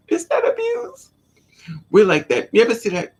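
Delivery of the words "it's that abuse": hammed-up sobbing squeal, much higher; mock crying. Echoing her friend's line in a mock-crying squeal. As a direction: wail it like a fake cry, pitched way up.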